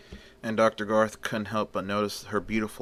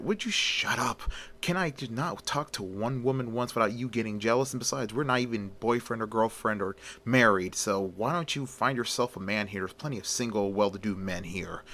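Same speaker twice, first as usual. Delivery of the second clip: very stern. Acted. Garth scolds jealous assistant Janet, very stern. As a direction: shut her up, stern and cutting. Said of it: "he says to Janet very sternly".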